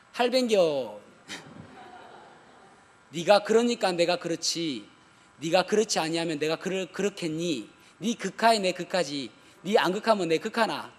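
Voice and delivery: lightly put-on Gyeongsang dialect, laughing at the end; mock Gyeongsang speech, half chuckling. Preacher joking to the congregation in a light Gyeongsang accent. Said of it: "이 말을 경상도 말로 이야기하면은".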